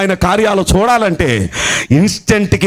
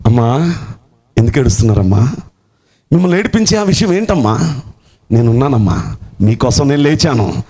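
Jesus gently comforting the congregation; tender comforting; 6 semitones lower than usual. Acted. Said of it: "మొదటి మాట ఏంటో చెప్పనా".

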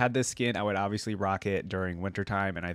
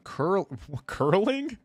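laughing disbelief; 9 semitones higher, much slower than usual. Real, not acted. Surprised by a curling skin.

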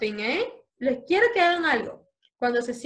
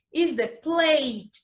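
model word slowly; slower than usual. Shown as a demonstration. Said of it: "Can you say plate?".

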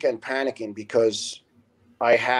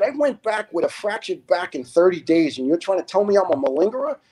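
high, incredulous mock yell at moderate volume; retold scream; 6 semitones higher than usual. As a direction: re-enact an outraged challenge, pitched up. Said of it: "And I screamed at the guy".

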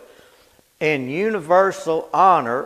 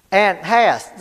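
hast held and leaned on, louder, falling; stress on hast; 5 semitones higher, 7 dB louder than usual. Shown as a demonstration. Preacher pointing the congregation to hast, stressed. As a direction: lean hard on hast and let it fall. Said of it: "look at that word".

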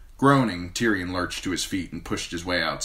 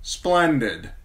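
dry; 7 semitones higher, 4 dB louder than usual. A narrator's reading. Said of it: "Tyrion said dryly".

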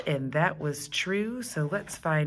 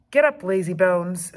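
louder, bossy little-brother call; teasing call; 3 semitones higher, 7 dB louder than usual. Acted. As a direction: call through the door to wake her. Stink wakes Judy.

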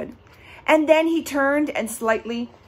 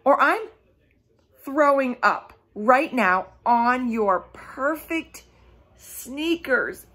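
mock roar; 3 semitones higher, slower than usual. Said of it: "Lulu roared".

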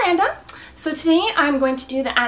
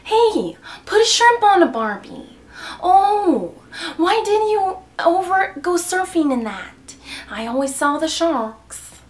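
high, punchy mock Australian; hammed-up Aussie accent, starting loud and high; 3 semitones higher, 3 dB louder than usual. Shown as a demonstration. Showing viewers an Australian, hammed-up Australian accent.

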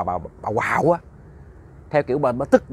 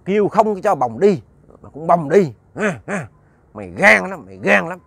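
eerie threatening voice; 4 semitones higher, 4 dB louder than usual. A narrator's reading. Old woman threatening from her room, in an eerie voice. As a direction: scold like a possessed old woman. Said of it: "bà nói theo cái giọng kỳ lắm, cái giọng nghe ghê lắm".

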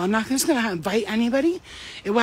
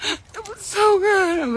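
laughing; 11 semitones higher, much slower than usual. Real, not acted. Laughing about crying during sex.

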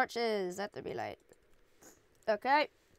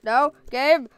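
frantic yelling; 5 semitones higher, 15 dB louder than usual. Real, not acted. Begging Zephyr to switch modes.

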